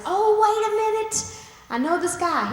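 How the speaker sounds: mock startled butler; sudden remembering. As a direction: catch yourself, suddenly remembering.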